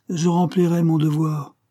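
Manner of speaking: high, firm declaration; stern resolve. A narrator's reading. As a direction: insist on duty over the son's protest. Father answers his outraged son. (fermeté sévère, voix haute)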